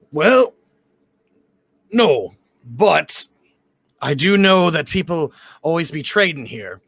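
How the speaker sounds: put-on loose fantasy Cockney-Australian accent; deliberate, lightly Australian tavern voice. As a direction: attempt a mild Australian accent. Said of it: "back to Australian".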